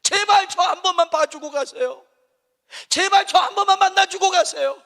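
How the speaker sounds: high, loud pleading; desperate begging. Retold or imitated. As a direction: beg him not to pass by. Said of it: "소리를 질렀다는 거예요".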